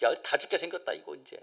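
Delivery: quiet scared grumble; hushed fearful aside. Retold or imitated. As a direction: mutter it like a frightened whisper in the crowd. People whispering in fear.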